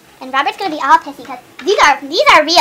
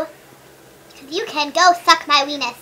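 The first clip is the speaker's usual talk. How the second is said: mock sass; much slower than usual. Mock insult to viewer.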